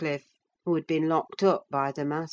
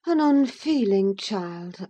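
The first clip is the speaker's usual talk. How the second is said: disapproving thought; 4 semitones higher, 3 dB louder, slower than usual. Acted. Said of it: "I thought to myself".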